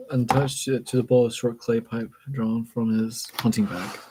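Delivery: measured, even read-aloud voice; story narration. A narrator's reading. Reader reading a book passage aloud, story narration. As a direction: read it out carefully, phrase by phrase.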